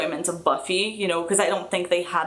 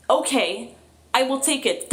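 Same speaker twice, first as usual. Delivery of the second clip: I will take it, lifted high and eager; grateful I will take it, sung up high; eager acceptance; 6 semitones higher than usual. Real, not acted. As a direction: pounce on I will take it, pitched up. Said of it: "That's an answer".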